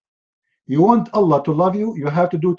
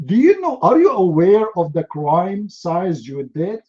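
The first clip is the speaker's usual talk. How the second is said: indignant judge. Acted. Judge asking the yawner about the crime's size, mock indignation.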